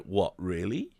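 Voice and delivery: soft, rising what really; quietly unsure, asking back; mock disbelief. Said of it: "And I was like".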